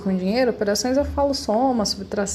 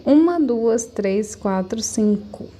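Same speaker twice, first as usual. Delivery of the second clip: counting syllables; slower than usual. Shown as a demonstration. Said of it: "Cinco sílabas".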